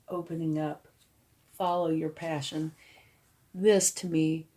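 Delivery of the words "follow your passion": usual speaking voice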